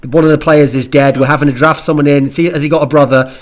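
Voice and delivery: mock frantic producer in the ear; panicking producer. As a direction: blurt out disasters like a frantic producer. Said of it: "we are now being told in Scott's ear".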